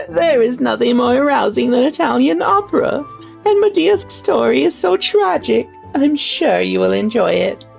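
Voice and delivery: high, lightly voiced old lady; a hint of an elderly noblewoman. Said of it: "how the fuck do I do an old lady voice?".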